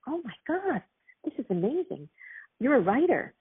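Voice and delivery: high, gushing mock enthusiasm; excited praise. Actors Studio colleagues gushing over her writing, excited. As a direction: burst out with delighted amazement.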